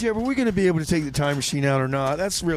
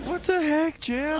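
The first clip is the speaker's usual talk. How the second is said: much higher, shocked outburst; startled; 12 semitones higher, slower than usual. Acted. Rebar shocked at Jeb's project, high startled cry. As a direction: jump in alarm.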